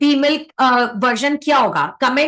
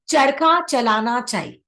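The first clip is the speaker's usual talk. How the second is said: slow dictation. Shown as a demonstration. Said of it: "क्या सीखे?".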